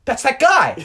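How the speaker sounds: high, loud shout of recognition; mock outcry. Friends joke that the victims are listening, mock outcry. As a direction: play an excited listener yelling out.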